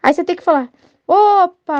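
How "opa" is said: higher, louder playful exclamation; jolly mock surprise. Shown as a demonstration. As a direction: make light of a child's tumble. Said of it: "até brincar um pouco".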